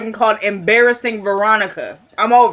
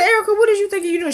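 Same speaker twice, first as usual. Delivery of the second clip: mock scold; 9 semitones higher, faster than usual. Speaker scolding, retold.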